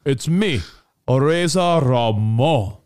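slow, cocky tough-guy drawl; laid-back macho promo voice; Razor Ramon impression. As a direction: play the swaggering wrestler, stretching his name. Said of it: "and he's like".

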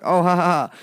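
loud, put-on ha-ha; imitated kid laughing. Kid copying the adult's laugh, mock laughing along. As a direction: copy the laugh back like a kid. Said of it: "they're like".

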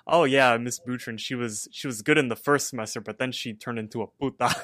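loud blurted oh yeah, then rushed; exclaiming. Retold or imitated. Teen telling mom about the Spanish teacher, loud and rushed. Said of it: "I was like".

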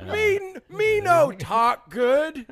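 slow, high dumb caveman voice; caveman talk. Pretend. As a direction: play dumb, slow and broken. Mocking own bad speech.

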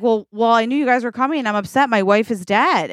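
acted, slightly rattled excuse; flustered defensiveness. Husband defends himself to police.

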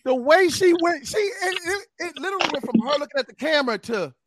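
high, laughing through the words. Real, not acted. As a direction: crack up mid-sentence. Laughing while retelling.

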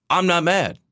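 high-pitched imitation of someone insisting they're fine; mock nonchalance. Imitating Buddy's defensive tweet.

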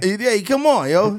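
high, loud wiseguy protest; hammed-up Italian tough guy; mock mobster. Mobster voice continues.

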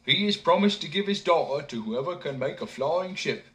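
lightly voiced eager simpleton; earnest young fool. A narrator's reading. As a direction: simpleton explaining his quest. Simpleton explains to old man.

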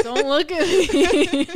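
slow, loud giggling protest; laughing. Real, not acted. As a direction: laugh through the words, embarrassed. Laughing while teased about crush.

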